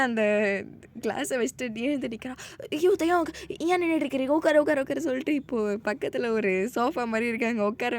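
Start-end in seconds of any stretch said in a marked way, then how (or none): 2.7-5.0 flustered urging. Acted. She jumps up, urging him.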